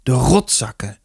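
understated tearful curse; sobbing. A narrator's reading. Beaten boy to his mother, mildly sobbing. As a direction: curse them while fighting back sobs. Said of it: "had het snikken nog niet onder controle".

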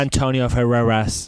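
slow, put-on English title call; mock announcer call. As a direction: draw the name out like a show intro. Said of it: "Especial Elecciones Estados Unidos with".

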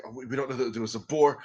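stammering agent dissolving into laughter; scared agent breaking up laughing; panicky agent. Acted. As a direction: babble fast, laughing through it.

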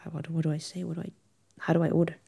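imitating own rising customer panic; mock panic. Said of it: "I'm like".

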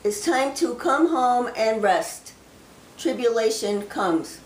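slow, solemn delivery of a prophecy; prophecy reading. Acted. Sharing a received prophecy with viewers, slow and solemn. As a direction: speak the words as if the Lord speaks through you.

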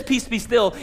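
"Peace, be still" spoken as a command to the storm; firm rebuke of the storm; commanding Jesus. Shown as a demonstration. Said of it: "He says".

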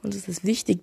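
ordinary delivery

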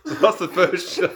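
laughing, slow and pleased. Real, not acted. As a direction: call the penalty through a laugh. Laughing while calling the penalty.

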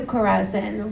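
measured, solemn Bible reading to the congregation; scripture reading. Acted. Preacher reading Matthew to the congregation, solemn. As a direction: read the passage with weight, building on the woes.

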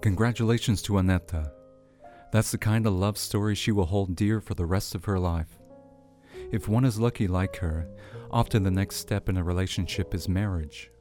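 measured presenter read over music; radio host read. Acted. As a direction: read it like a radio segment intro. Host reads segment over music.

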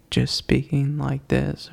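slow, level monotone demo. Shown as a demonstration. Podcaster showing co-host what monotone means, in a slow monotone. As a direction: keep it neutral and drag it slightly. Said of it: "Monotone is, like, neutral".

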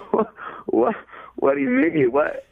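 put-on high, stunned kid protesting in disbelief; hurt, squeaky outrage at having his dream crushed; shocked disbelief. Son stunned by mom's verdict.

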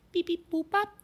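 high robotic beeps; computer processing. Pretend. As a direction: beep like a computer thinking. Alexa computing.

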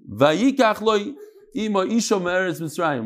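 chanted verse quote; reading the verse. Shown as a demonstration. Teacher to students, quoting the verse in a reading lilt. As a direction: reads the Hebrew verse deliberately. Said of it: "it says".

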